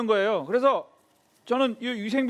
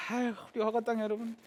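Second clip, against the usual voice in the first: ordinary talk, nothing marked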